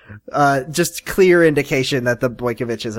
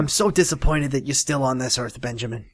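softer, lower mock reproach; mock disappointed mutter; 3 semitones lower, 6 dB quieter than usual. Cohost voicing a disappointed parent to Ben, quietly. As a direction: murmur it like a let-down parent.

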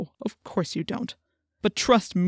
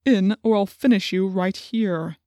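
slow, cruel threat; drawn-out menace, only slightly hushed; slower than usual. A narrator's reading. Chapman threatening to finish the cat, slow and cruel. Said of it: "said in a cruel whisper".

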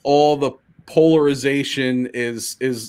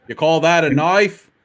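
lightly put-on Aussie accent; a hint of broad Australian twang. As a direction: quote it in a mock Australian accent. Australian film catchphrase bit.

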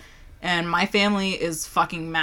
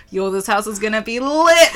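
laughing; 4 dB louder than usual. Retold or imitated. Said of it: "I'm like".

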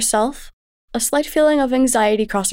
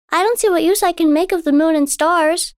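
put-on high, wondering child; a little girl full of awe; young girl voice; 7 semitones higher, 4 dB louder than usual. A narrator's reading. Daughter tells her mother about the moonlit lake, in wonder.

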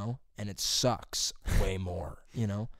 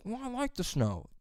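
high prissy mock voice; 12 semitones higher than usual. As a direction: parody a naive snow lover. Mocking snow lovers.

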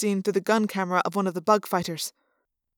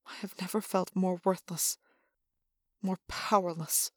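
despairing; 8 dB quieter than usual. Acted. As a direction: say it hollow and defeated. Despairing captive narrator.

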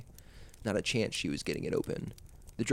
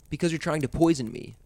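put-on frightened boy hissing; hissed; 5 semitones higher, 6 dB louder than usual. A narrator's reading. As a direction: hiss it through the door. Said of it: "Carter hissed at her through the door".

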